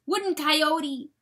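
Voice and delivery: high, loud cutting-in; urgent interruption. A narrator's reading. Weasel stopping the coyote's denial, urgent. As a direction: cut in urgently.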